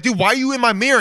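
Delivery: baffled and annoyed; exasperated. Pretend. Host confronting the man in his mirror, exasperated. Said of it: "And I'd be like".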